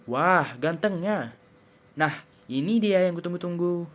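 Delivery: seruan kagum yang lambat dan meninggi. Shown as a demonstration. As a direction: ucapkan pelan dengan nada naik penuh kagum. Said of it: "biasanya dengan intonasi menaik". (kalimat seruan yang dipanjangkan dengan kagum)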